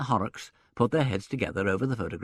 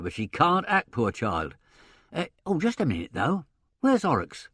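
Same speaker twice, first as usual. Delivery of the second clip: put-on a brash, chatty old agent thinking aloud, pitched up; lively agent voice working it out; gruff theatre agent; 2 semitones higher, 6 dB louder than usual. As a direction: voice a blustering old stage agent. Theatrical agent Sullivan talking.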